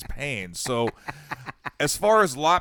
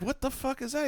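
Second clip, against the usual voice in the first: retold disbelief; 5 dB quieter than usual. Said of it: "I'm like".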